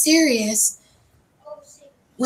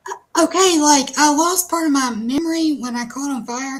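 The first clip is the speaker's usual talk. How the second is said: higher, louder rush of a defensive excuse; flustered excuse; 4 semitones higher, 4 dB louder than usual. Retold or imitated. Explaining to her friends why she missed it, flustered. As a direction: blurt it out, caught off guard and defending yourself.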